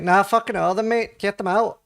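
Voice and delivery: mock cabbie rant; retold racist taxi driver. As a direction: play a ranting taxi driver. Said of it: "and he's like".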